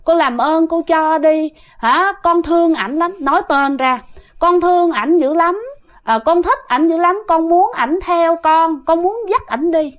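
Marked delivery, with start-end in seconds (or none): 0.0-3.2 pleading spirit, higher and coy; gentle coy spirit voice. Retold or imitated. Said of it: "nói nhẹ nhàng lắm nghe, mà dẹo còn hơn Thi nữa". 4.4-9.9 pleading spirit, higher and coy; gentle coy spirit voice. Retold or imitated. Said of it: "nói nhẹ nhàng lắm nghe, mà dẹo còn hơn Thi nữa".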